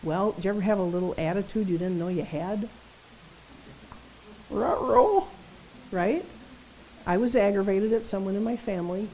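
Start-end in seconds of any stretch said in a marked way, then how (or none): 4.5-5.3 hammed-up Scooby-style uh-oh, higher; goofy cartoon dog oops; cartoon ruh-roh. Preacher to church, caught out, cartoon ruh-roh. Cartoon uh-oh after attitude question.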